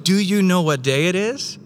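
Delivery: put-on a dad bursting in on his toddler's birthday; God as a proud father waking his toddler on their birthday, eager then tender; excited loving father. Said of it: "like a loving father running into his toddler's room saying".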